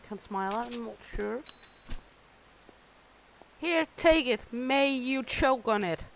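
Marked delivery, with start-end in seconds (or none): 3.6-6.0 snippy handover. Acted. Cook cursing the customer while serving, mock spiteful. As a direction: shove the food over with a curse. Handing order to annoying customer.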